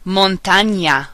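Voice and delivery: slow Spanish "Montaña", as "mon-TAH-nya". Shown as a demonstration. Teacher giving words to practice, NY sound in "Montaña". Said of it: "Ñ sounds like ña".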